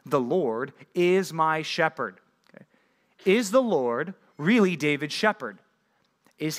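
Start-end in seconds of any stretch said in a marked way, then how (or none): 0.1-2.2 slow, reverent verse reading. Shown as a demonstration. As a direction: lay out each word of the verse slowly. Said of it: "where David says to God".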